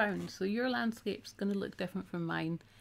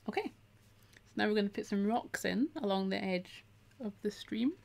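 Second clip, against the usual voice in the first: talking through hiccups; hiccuping between words; 2 semitones higher than usual. Real, not acted. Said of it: "Oh, I'm hiccuping a lot".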